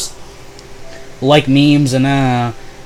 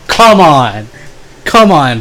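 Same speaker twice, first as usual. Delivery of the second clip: loud frustrated plea; exasperated pleading; 5 dB louder, much slower than usual. Retold or imitated. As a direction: urge your friend loudly. Pleading to Jordan.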